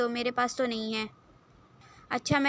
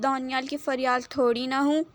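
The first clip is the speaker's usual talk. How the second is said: ہوں rising at the end, asking in confusion; puzzled question. Acted. Daniyal puzzled by Momal's teasing words, asking back. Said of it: "سوالیہ نظروں سے".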